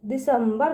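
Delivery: दिसंबर with a clear m before ब; half-m sound. Shown as a demonstration. Teacher showing children the half-letter sound, दिसंबर with a clear m. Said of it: "आधा म का sound निकलेगा".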